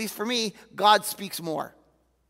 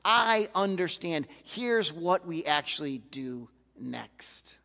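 gentle reassurance; slower than usual. Retold or imitated. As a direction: ease into a near whisper. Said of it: "God can actually speak to us and say".

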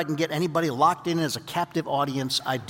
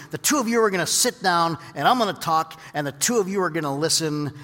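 firm, commanding preacher's voice, only slightly raised; real authority; 3 dB louder than usual. Retold or imitated. Preacher ordering husband and wife to sit and listen, firm and commanding. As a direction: lay down the law to the couple. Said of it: "And then I said with real authority".

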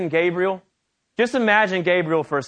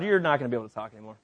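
curt dismissal; 8 semitones lower, 8 dB quieter, much faster than usual. Retold or imitated. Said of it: "So he's like".

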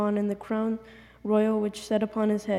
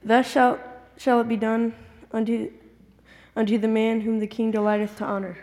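louder on request; 4 dB louder than usual. Real, not acted. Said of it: "A little louder".

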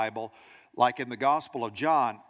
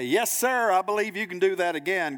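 higher, louder mock-keen agreement; eager onlooker; 5 semitones higher, 3 dB louder than usual. Onlooker assures the performer from a safe distance, keenly. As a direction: play the confident bystander cheering from safety. Imitating an onlooker's easy belief.

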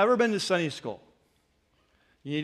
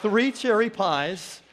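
1 laughing delight; 3 semitones higher, slower than usual. Real, not acted. Delighted over free pies.

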